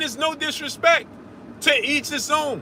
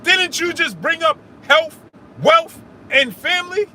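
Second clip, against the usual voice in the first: raised voice; 5 semitones higher than usual. Real, not acted. Heated argument with a caller.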